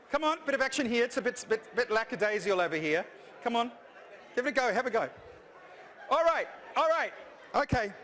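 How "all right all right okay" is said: high and loud Kermit; a touch of Kermit. Shown as a demonstration. Presenter calls the room to order in a high Kermit voice. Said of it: "sound right up here".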